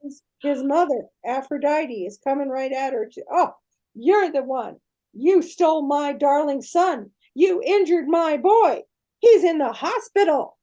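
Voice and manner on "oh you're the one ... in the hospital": angry goddess. Retold or imitated. Aphrodite voiced angrily in story.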